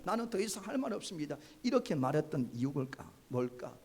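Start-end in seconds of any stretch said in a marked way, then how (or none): 0.0-1.4 fast, firm 할 말이 없습니다 with a falling end; firm refusal. Retold or imitated. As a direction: quickly shut the king down. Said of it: "왕이 그런 말을 해도". (빠르고 단호하게)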